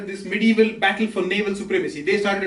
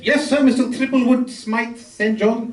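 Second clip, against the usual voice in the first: put-on English accent; slower than usual. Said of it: "my English accent is terrible".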